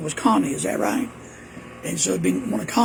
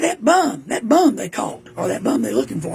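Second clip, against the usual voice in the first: imitating mama; 4 semitones higher, 4 dB louder than usual. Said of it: "She said".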